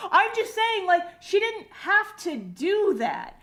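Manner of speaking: high-pitched, emphatic complaint; comic exasperation. Real, not acted. Fan ranting about the music school plot, comic exasperation. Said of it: "I'm so mad about these teens".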